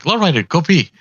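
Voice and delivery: high, loud call to the dog; sing-song old lady calling her pet; granny calling the dog out to pee; grandma calling dog. Acted.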